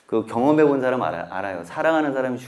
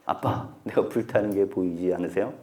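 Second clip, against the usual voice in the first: softer, hushed reproach to the father; quiet reproachful child; 5 semitones lower, 7 dB quieter than usual. Retold or imitated. Dead child softly rebuking his sleeping father, hushed. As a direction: let the child's rebuke come low and soft. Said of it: "굉장히 아빠한테 질책하는 말이죠".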